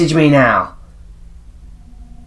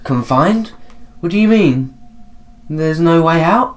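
worried questioning; 5 semitones higher than usual. Acted. Voicing worried character questioning ghost.

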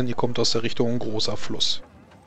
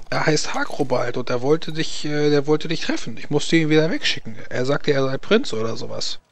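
put-on chatty old widow; 3 semitones higher than usual. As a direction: spill the gossip eagerly, like a nosy widow. GM voices the widow.

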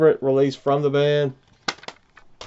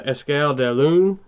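French title in a Southern American drawl. Real, not acted. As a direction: read the French with a Southern US accent. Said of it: "Southern American drawl trying to speak French".

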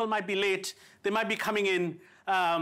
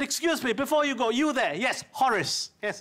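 lightly clipped butler-ish English with an Indian lilt; posh Indian-English address. Retold or imitated. Indians stopping the departing British, posh Indian English. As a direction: call the departing master like a proper colonial servant. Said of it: "we said".

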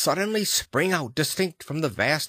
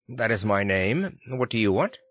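cool answer. Acted. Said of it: "he answered coolly enough".

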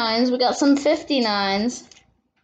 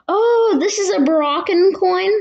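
surprised; 6 semitones higher, 4 dB louder than usual. Real, not acted. Surprise at finding a foreign coin.

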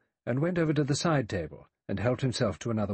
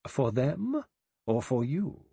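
acid; 6 semitones higher, slower than usual. A narrator's reading. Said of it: "said acidly".

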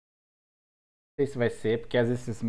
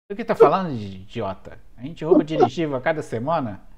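loud scolding boss; angry shout; 6 dB louder than usual. Acted. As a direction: bark at him, louder. NPC boss scolds the prisoner.

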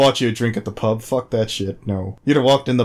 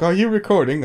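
retold question; 7 semitones higher than usual. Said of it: "He's like".

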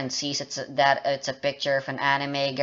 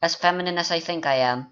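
feminine voice; 2 semitones higher than usual. Shown as a demonstration. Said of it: "so I'm doing this voice now".

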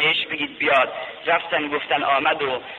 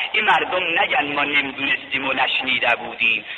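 ordinary delivery

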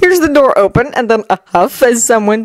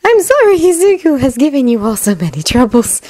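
amused; 7 semitones higher than usual. Acted. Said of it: "a trace of amusement in her voice".

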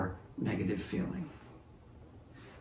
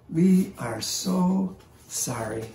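slow, higher, gentle condolence; tender sympathy; 5 semitones higher, slower than usual. Retold or imitated. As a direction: kneel beside her and mean every word, slowly. Old man comforting crying woman.

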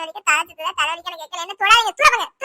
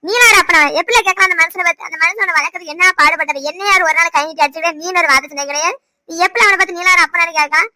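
loud, indignant telling-off; angry scolding; 5 dB louder than usual. Acted. Mother rebukes husband for insulting their son, shouting angrily. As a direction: shout him down in her son's defence.

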